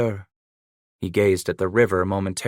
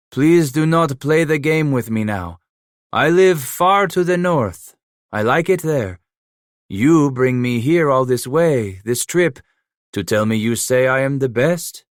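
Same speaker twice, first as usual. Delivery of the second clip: put-on raised, louder French-accented scoff; French-accented Emile, scoffing; 5 semitones higher, 5 dB louder than usual. A narrator's reading. Trapper Emile scoffing at Leclerc's flattery, louder and higher. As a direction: push back hard with a French lilt.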